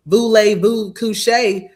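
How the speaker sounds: slow, drawn-out bad French accent; botched French. Host mocking someone who falsely claims to speak French, botched French accent. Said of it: "Yeah, I can speak French".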